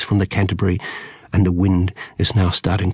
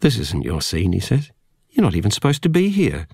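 cold voice; 2 semitones higher than usual. Acted. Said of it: "Such a cold voice".

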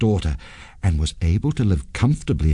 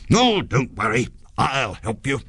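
higher-pitched ghost voice, reassuring; lightly voiced ghost offering help; 5 semitones higher than usual. A narrator's reading. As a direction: soothe him in a light ghostly character voice.

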